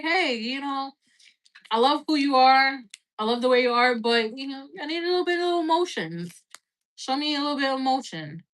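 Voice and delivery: a light put-on British accent, half joking. Coaching the viewer to ask him for feelings, in a mock British accent. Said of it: "I was talking in British accent".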